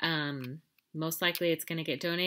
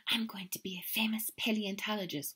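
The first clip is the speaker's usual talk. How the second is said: secretive whisper; 3 semitones higher, 4 dB quieter than usual. Acted. Skippy whispering his dream on the way to his room. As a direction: breathe it like a secret plan. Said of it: "whispered Skippy John Jones".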